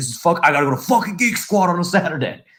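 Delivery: acted-out angry swearing, high-pitched. Retelling how a man reacted when asked for his login, imitating pissed cussing. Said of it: "He was like pissed".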